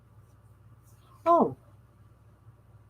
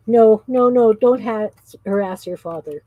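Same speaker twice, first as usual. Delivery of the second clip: scolding; 5 dB louder than usual. Real, not acted. Telling child off by phone.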